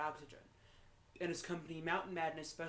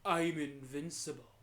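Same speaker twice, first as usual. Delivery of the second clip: slow, dying gasp of a movie line, mildly voiced; hammed-up deathbed line, slow; shuddering last words; 5 dB louder than usual. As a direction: let it shudder out as a dying man's final boast. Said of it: "shuddered his last words".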